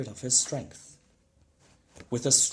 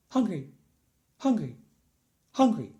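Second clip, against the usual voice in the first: put-on higher, louder baby wail building; baby hollering; 7 semitones higher, 7 dB louder than usual. A narrator's reading. Baby Finn hollering for food, growing louder. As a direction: wail it louder each time. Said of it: "The baby began to holler too".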